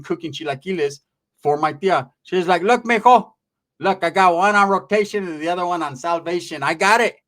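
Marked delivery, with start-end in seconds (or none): 2.6-7.2 higher, louder voice for a boasting aunt; animated mock-aunt brag; boastful aunt. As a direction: play the tia bragging, raised pitch. Aunt boasting in acted story.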